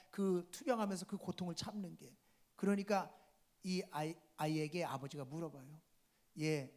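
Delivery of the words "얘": softly voiced worried father, low and slow; tender concern. Father asking his sick child if it hurts, tender concern. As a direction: ask gently, with a touch of pity. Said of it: "안쓰러운 마음에".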